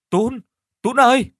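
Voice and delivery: high calling of a name; desperate cry out. Acted. Girl Hà crying out for vanished Tún, desperate high call. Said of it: "òa khóc".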